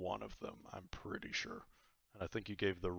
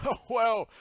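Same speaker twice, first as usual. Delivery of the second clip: high, loud laughing pirate captain; jolly pirate god; 6 semitones higher, 9 dB louder than usual. Acted. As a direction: boast like a merry pirate.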